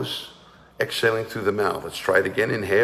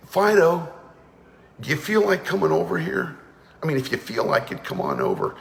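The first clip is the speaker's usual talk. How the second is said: meek dog call; 4 semitones higher than usual. Shown as a demonstration. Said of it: "you can't say".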